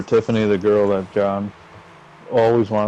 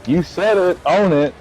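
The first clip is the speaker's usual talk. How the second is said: higher, emphatic scolding; retold confrontation; 8 semitones higher than usual. Brother telling her to admit what she said, exasperated. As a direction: punch out each demand, imitating him.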